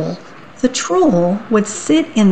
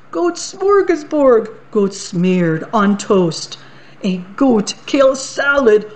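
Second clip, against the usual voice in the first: gleeful troll. Acted. Troll dances and lists goat dishes at the goat. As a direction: savour every recipe with greedy glee.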